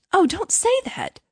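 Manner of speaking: high, drawn-out protest; crying out. A narrator's reading. Hans protests to the reproachful miller, high slow cry. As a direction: cry it slowly, pitched right up. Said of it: "cried little Hans".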